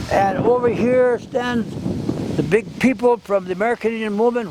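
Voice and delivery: a mild version of a forceful elder's challenge; retold forceful speech. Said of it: "very strong".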